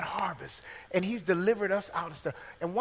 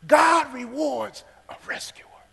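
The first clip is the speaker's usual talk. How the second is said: whisper; 6 semitones higher, 5 dB louder, slower than usual. Shown as a demonstration. Preacher repeating his point to the congregation, whispered slowly. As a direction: repeat it in a slow breathy whisper.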